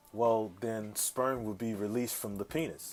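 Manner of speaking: quiet, prim technical answer; super proper. Retold or imitated. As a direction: sound proper and technical, not vulgar. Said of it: "I'm talking super proper and all technical".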